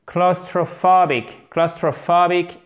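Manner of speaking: CLAUSTROPHOBIC slowly, with main stress on PHO; accent tonique. Shown as a demonstration. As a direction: model "Claustrophobic" with a small early stress and the main one on PHO. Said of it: "vous avez l'accent tonique général". (« claustrophobic » avec l'accent tonique bien marqué)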